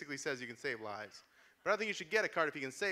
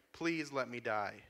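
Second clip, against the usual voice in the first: slow plea; 3 semitones lower, slower than usual. Retold or imitated. Card quote, dragged out.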